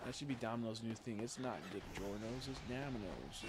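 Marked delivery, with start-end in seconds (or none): 1.2-3.5 mock Southern accent slogan, softer; lightly put-on Southern accent tagline. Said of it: "They have, like, a southern accent".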